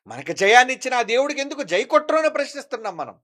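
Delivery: high, driving sermon delivery; impassioned preaching challenge. Acted. Preacher asking people why they won't hail Jesus, impassioned challenge. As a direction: press the congregation hard with the question.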